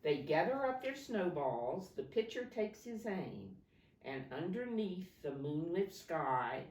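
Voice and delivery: rhythmic picture-book read-aloud; reading to children. Acted. Teacher reading a snow story to her class, lilting. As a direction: lilt the rhyming verse for the class.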